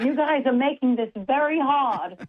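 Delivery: put-on British accent. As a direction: struggle along in an amateur British accent. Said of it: "British accent and ask a question".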